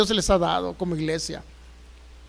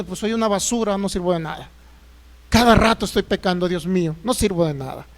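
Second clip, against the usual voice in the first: mock self-pity; 3 semitones lower than usual. Self-condemning believer voiced.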